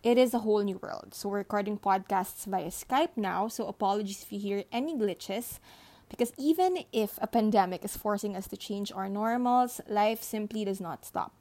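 muffled under a blanket; recorded under a thick blanket. Real, not acted. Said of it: "I am recording this under a blanket".

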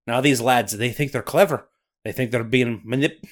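put-on Scottish accent slipping away. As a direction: Scots brogue that falters. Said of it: "Lose an accent on those three-syllable guys".

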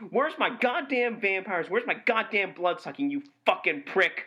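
comic outrage, pitch jumping up at first; indignant rant. Acted. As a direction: demand what you were promised, exasperated. Ranting at the film's false promise.

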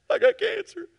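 very high, loud put-on voice; wife voiced. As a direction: deliver the news in her voice. Wife's news in retold scene.

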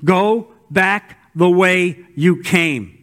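measured, slow command; slow, deliberate. Acted. God sending Elijah back, slow and deliberate. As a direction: give each word weight. Reading God's words slowly.

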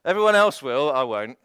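protesting Peter. Retold or imitated. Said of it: "Peter's always like".

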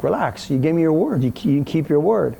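a mild mock of angry mom; retold anger. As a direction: scold him for breaking his word. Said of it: "seriously pissed off".

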